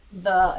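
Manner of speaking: "the" drawn out slowly; a long, spaced-out "the". Retold or imitated. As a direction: stretch out "the" as if spelled with gaps. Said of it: "like, spaced out".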